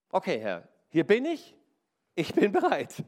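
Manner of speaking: an eager "hier bin ich" to the Lord; fervent prayer. Acted. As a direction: offer yourself, voice lifting. Preacher prays aloud to God.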